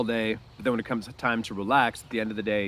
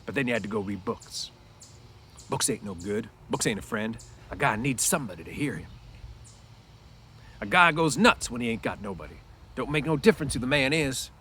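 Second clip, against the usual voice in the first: lightly voiced lonely ranch hand; Crooks, lonely stable buck; 2 semitones higher than usual. Lonely Crooks pleads with Lenny about needing somebody. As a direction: reads Crooks reaching out, a bit pleading. Teacher reads Crooks aloud.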